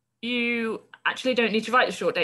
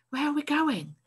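worried question; 8 semitones higher than usual. Acted. Frightened boy asks.

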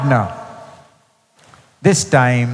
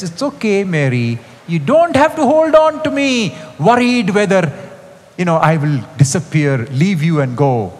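lightly raised, comforting reassurance; reassuring; 3 semitones higher than usual. Acted. Jesus reassuring clinging Mary, gently comforting. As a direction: comfort her like a worried child.

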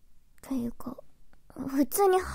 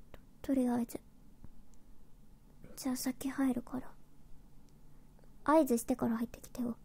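whispering; 9 dB quieter, faster than usual. Acted. Whispers most lines.

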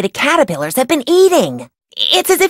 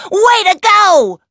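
high, drawn-out cheer; 9 semitones higher, 3 dB louder, slower than usual. Real, not acted. Scientist praising Nancy, cheering. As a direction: cheer her on with real joy.

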